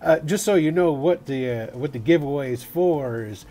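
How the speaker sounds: put-on cowboy accent. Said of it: "I don't know why I'm doing this in the accent".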